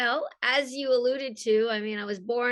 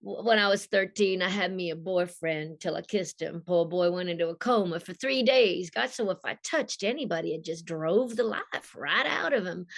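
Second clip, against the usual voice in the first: husky Southern confession, lightly acted; Rogue; 2 semitones lower than usual. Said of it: "they wanted a sexy Southern voice".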